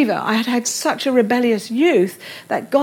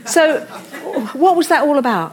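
amused question through a laugh; 3 semitones higher than usual. Real, not acted. Preacher laughing about being moved in weeks, amused. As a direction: chuckle while asking.

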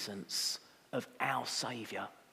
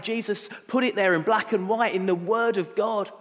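loud, higher-pitched scripture proclamation; forceful preaching; 6 semitones higher, 7 dB louder than usual. Acted. Preacher warns congregation of wars and famines, forceful preaching. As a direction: drive the prophecy home to the congregation.

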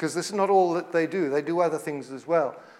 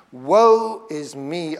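slow, drawn-out cry of despair, barely raised; slow lament; 3 dB louder, much slower than usual. Retold or imitated. Isaiah before God, slow mournful lament. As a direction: mourn each word slowly. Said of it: "I cried".

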